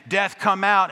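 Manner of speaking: loud, high call; booming call. Retold or imitated. Pastor pounding on the doors, loud booming call. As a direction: hammer the words out. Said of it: "Bang, bang, bang".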